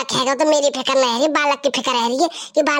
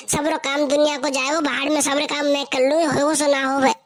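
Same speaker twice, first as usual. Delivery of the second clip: sugary mother-in-law. Acted. Mother-in-law fussing over pregnant daughter-in-law, lightly voiced and sugary.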